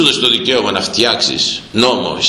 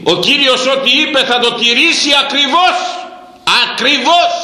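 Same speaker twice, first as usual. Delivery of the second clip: high ringing shout on ακριβώς; preaching shout; 12 semitones higher than usual. Real, not acted. Preacher to his flock, ringing high shout. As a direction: cry it out to the whole church.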